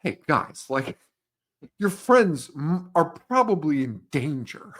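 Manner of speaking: mildly exasperated cop impersonation. Retold or imitated. Cop warning teens their friends are in danger, exasperated. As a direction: plead with them, halting, mock exasperation. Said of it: "exacerbated, and he's like".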